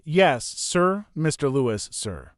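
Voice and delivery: talking around a mouthful of sandwich; mouth full. Acted. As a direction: mouth full, chewing while speaking. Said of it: "I shoved the part of the sandwich that I was chewing into the side of my mouth so I could say".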